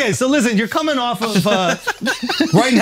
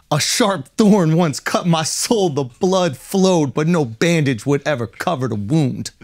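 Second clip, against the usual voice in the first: slow dramatic recitation; much slower than usual. Acted. Reads his rap slowly.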